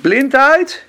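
loud echo of the answer; loud repeated answer; loud echo question. Real, not acted. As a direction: call it back to the room.

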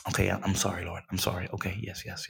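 low, soft, hushed apology; calming down. Retold or imitated. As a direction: settle yourself, breathe, go quiet. Retold prayer, calming himself down.

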